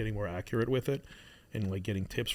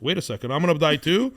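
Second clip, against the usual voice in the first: put-on rising panicked child's question, much louder; alarmed child; 5 semitones higher, 10 dB louder than usual. Father imitating his five-year-old son's alarmed cry. Upset son realizing he'll die.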